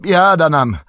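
high, loud wail of woe; cry of dismay. Acted. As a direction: cry out in alarm. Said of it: "Krzyknął pan Butterbur".

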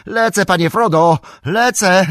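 high, loud call to his master. Acted. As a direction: call out urgently as you rush after him. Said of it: "zawołał sam".

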